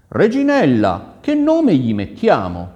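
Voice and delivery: loud, high, projected question; prince calling his wife. Acted. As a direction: call out to her, then ask grandly. (principe, voce alta e sonora)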